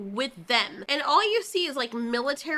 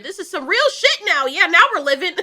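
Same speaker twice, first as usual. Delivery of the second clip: gleeful mock cheer; 5 semitones higher, 9 dB louder than usual. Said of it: "Zom one hundred".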